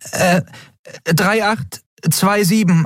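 high, slow hesitant recall; unsure Nelen. A narrator's reading. Nelen recalling the code, hesitant and high. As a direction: hesitate over the digits.

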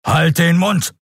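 high, barked command; thundering Keru. Acted. Keru thundering at Endriel, high. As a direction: shut her up hard. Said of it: "donnerte er".

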